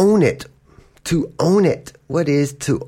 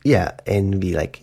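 normal talking voice

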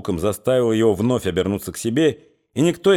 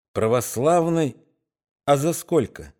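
mocking jibe; 3 semitones higher than usual. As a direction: needle him with sarcasm. Sashka mocking the thug.

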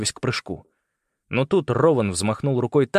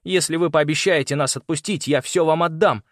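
high, pressing plea; raised, insistent offer under threat; urgent bargaining; 6 semitones higher, 4 dB louder than usual. A narrator's reading. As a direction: bargain for your life. Boy bargains for his life.

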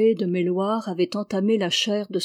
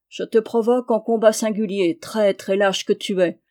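a touch louder, a knight throwing down a challenge; Aubry's understated challenging cry; 4 dB louder than usual. Acted. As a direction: call him out to single combat. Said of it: "s'écria Aubry".

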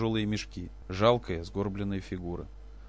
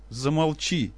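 high, louder shout of shut up; angry cry; 6 semitones higher, 4 dB louder, much slower than usual. Acted. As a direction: shout him down. Wife shouts at him.

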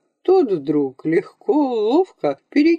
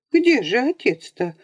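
stern; 6 semitones higher than usual. A narrator's reading. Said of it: "строго сердито спросила бабуша".

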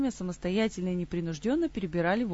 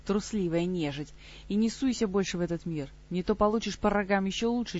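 shouting. Acted. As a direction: yell a threat at the dark. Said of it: "прокричал в темноту".

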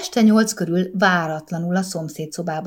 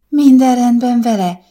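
moved; 5 semitones higher, 8 dB louder than usual. A narrator's reading. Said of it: "kérdezte a mama meghatottan".

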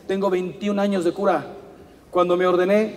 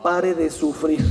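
mocking slogan; 4 semitones lower, slower than usual. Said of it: "la secta esta, ¿cómo se llama?".

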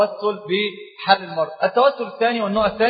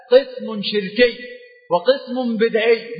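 slow emphasis; much slower than usual. Shown as a demonstration.

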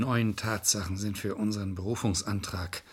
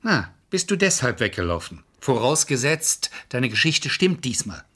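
angry accusation; 2 semitones higher, 5 dB louder than usual. Acted. Lawyer accuses client angrily.

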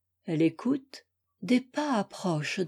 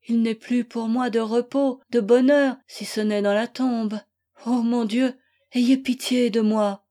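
anguished lament; 2 semitones higher, 3 dB louder than usual. Acted. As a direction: beg God for pity. Wife laments alone, praying.

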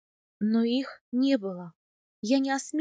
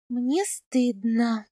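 moaning; much slower than usual. Acted. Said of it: "простонала я".

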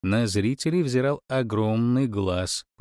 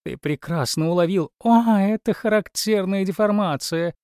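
louder, higher warbling gush; 9 semitones higher, 4 dB louder than usual. A narrator's reading. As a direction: pour it out like a nightingale. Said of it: "разливалась соловьём".

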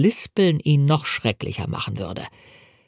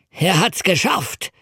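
triumphant cry; 5 semitones higher, slower than usual. A narrator's reading. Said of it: "schrie er".

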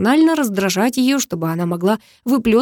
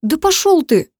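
put-on much higher, girl's voice, snapping in fury; angry swearing; 8 semitones higher, 4 dB louder than usual. A narrator's reading. Karina cursing the hero after tumbling into the stream. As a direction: spit it out at him after the fall. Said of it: "выругалась".

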